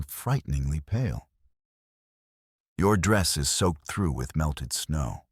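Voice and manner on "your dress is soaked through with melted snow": slow, no-nonsense statement; matter-of-fact. Acted. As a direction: state it plainly, slowly. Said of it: "he said matter-of-factly".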